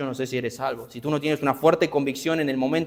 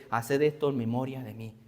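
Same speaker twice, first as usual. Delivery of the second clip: hushed quote of Jesus; 7 dB quieter than usual. Acted. Quoting Jesus at the supper.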